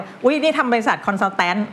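put-on slow Thai-accented "consultant" with full -tan ending; Thai-style English loanword. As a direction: act a Thai speaker dropping "consultant" into chat. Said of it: "คือเวลาพูดไทย".

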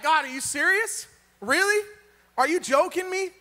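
you can't be serious, push back; incredulous protest. Retold or imitated. Gideon protesting to God about the numbers, incredulous.

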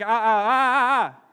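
loud, slow hammed-up panting "ah"s; mock panicked gasps. Pastor mimics someone panicking at an angel, loud mock gasps. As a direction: gasp like a sinner overwhelmed by terror. Sinner terrified before an angel.

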